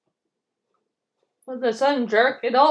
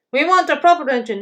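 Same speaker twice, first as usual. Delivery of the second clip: indignant trucks; 4 semitones higher, 7 dB louder than usual. Acted. Trucks jeering at James.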